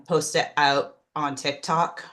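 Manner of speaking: slow, with a Canadian "out"; Canadian accent. Real, not acted. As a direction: say it with a Canadian lilt. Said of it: "I just got real Canadian there".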